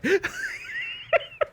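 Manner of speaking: very high wheezing laugh; helpless laughing. Real, not acted. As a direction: laugh until the breath runs out. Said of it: "that made me laugh a lot".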